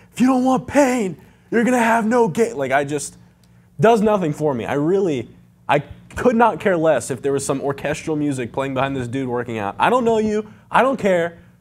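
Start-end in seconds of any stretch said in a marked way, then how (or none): 0.1-2.5 high, screaming, hyped motivational yell. Mocking motivational videos they dislike, imitating a screaming motivational guy. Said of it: "some guy screaming like".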